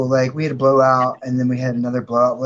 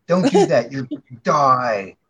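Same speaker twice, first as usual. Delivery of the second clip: mock scolding.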